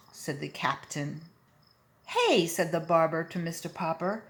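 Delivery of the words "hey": loud high yell; angry shout. Acted. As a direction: shout it at him. Barber yells at Popper.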